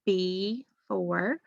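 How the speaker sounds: 'before' split as 'bee... fore'; syllable-by-syllable reading. Shown as a demonstration. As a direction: hold a long E in 'before', then finish the word. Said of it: "it's at the end of a syllable".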